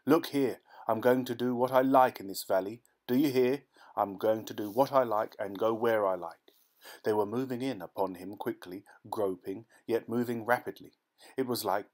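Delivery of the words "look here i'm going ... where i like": defiant shout. Acted. Nunez shouts defiance at the blind villagers. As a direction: declare it loudly to the whole valley. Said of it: "he called aloud".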